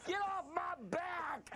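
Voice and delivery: slow hammed-up shout; mock yell. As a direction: rant it, slow and big. Mock rant on Tiger jokes.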